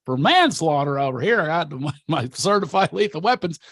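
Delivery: hammed-up jittery small-town deputy bluster; Barney Fife. Bragging to people about his black belt, as a mock Barney Fife. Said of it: "was like Barney Fife".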